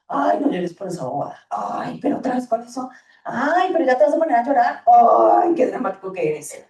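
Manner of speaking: put-on scolding a crying child, dismissive; dismissive parent. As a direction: brush the child's tears off impatiently. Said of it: "estamos invalidando las emociones". (madre que desestima el llanto del niño, con fastidio)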